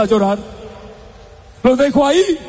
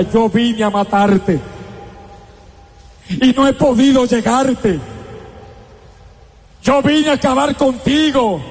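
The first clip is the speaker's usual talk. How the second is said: satanic voice. Retold or imitated. Possessed boy threatening the priest, a hint of satanic voice. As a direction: lightly voice the possessed boy's threat. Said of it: "con voz satánica".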